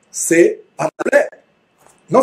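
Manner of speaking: ordinary delivery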